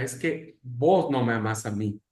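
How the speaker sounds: ordinary delivery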